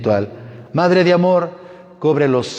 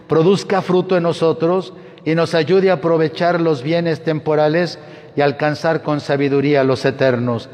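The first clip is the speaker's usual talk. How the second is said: raised, intoned liturgy; cathedral echo; 5 semitones higher than usual. Acted. Priest intoning closing rites.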